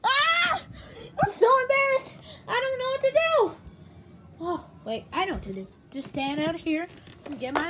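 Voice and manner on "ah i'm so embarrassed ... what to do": high-pitched play-acted fluster; raised, flustered whine; embarrassed wail. I'm so embarrassed.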